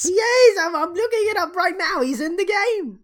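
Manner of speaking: high, fast, breaking with laughter; laughing insistence. Real, not acted. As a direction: insist while cracking up.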